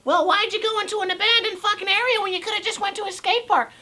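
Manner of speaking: high nagging voice; high-pitched sarcastic heckler voice; mock critic. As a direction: imitate a whiny commenter up high. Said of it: "some people might be saying".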